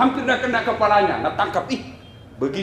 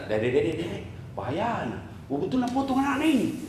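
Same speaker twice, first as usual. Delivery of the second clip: panicky devil; 6 dB quieter than usual. Acted. Iblis panics at the plan.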